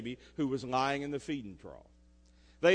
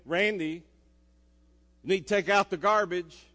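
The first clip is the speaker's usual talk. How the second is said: a louder, firmer mom reminder; 6 dB louder than usual. Retold or imitated. Mom reminding her son again, firmer and louder. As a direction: insist a bit more this time. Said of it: "voice inflection just went up about three decibels".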